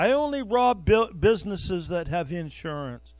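thief's excuse voiced high; high mock thief's excuse. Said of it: "by the fact that".

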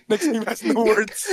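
put-on slow, frail old man voice. Shown as a demonstration. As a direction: creak it slowly like a tired old man. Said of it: "read the words ... like an old man".

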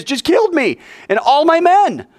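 exasperated. Acted. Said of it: "Snake's outrage".

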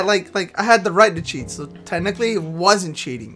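trailing off. Real, not acted. Voice sinks while rationalizing.

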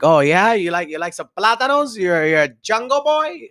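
high, hyped radio host voice; excited teasing radio voice; Frank impression. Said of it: "I'd hear Frank".

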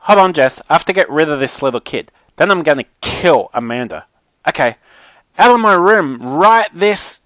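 high, loud yelling for Mum; furious Mackenzie. A narrator's reading. Mackenzie wants the little kid out of her room, furious. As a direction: yell for backup, then order the kid out.

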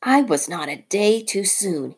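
lightly voiced Rikki; relieved mongoose. Rikki finding the cobra eggs, mild relief. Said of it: "he said".

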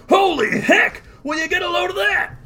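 high-pitched astonished yell. Acted. Guard seeing the headless body approach, yelling out. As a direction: call out high, amazed. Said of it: "One of the guards yelling out".

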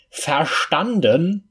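loud, slow roared question; bellowing. A narrator's reading. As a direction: bellow it to intimidate. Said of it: "brüllte er".

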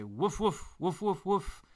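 high, loud playful woofs; dog barking. Acted. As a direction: bark it out like a happy puppy. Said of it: "their doggy Woody say".

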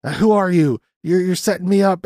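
high-pitched, rattled interrogation, mildly acted; mock panicky suspicion, pitch jumping up; scared questioning. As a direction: retell a spooked man firing accusing questions. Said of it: "Clooney starts getting scared and he starts questioning her".

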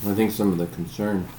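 talking with mouth full; speaking through a mouthful of food. Real, not acted. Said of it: "sorry, my mouth is full of".

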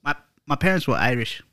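lightly put-on Irish accent; bad Irish accent. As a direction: attempt an Irish accent, not very well. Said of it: "or Irish".

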